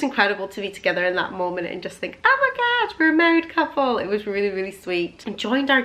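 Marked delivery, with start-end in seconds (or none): 2.2-4.0 much higher, thrilled squeal of realization; lightly imitated excited newlywed; giddy disbelief. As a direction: gasp it out like you just can't believe it. Thinking in the Rolls Royce.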